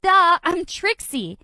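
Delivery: loud, slow, high exasperated duh; annoyed duh. Acted. Trixie telling Julia who she is, loud exasperated duh. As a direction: spell it out, fed up.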